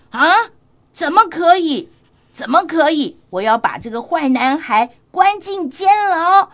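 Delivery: a storybook king fuming, hammed up; angry king. King outraged that someone stole the pet cat, loud. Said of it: "国王就很生气哦".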